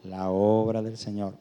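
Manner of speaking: lectura lenta y solemne del versículo; lectura bíblica. Acted. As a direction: lee despacio, con peso. Lee versículo de Corintios. (el predicador lee Corintios, lento y solemne)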